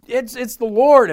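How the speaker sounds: excited yell, high and loud; imitated shout across the water; John. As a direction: call it out high, loud and drawn out. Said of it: "John yells out".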